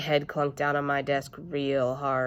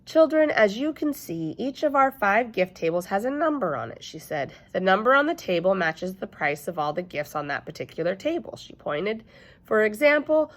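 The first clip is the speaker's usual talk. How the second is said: patient shop lady; 3 semitones higher than usual. Acted. Elf Ellen explaining prices.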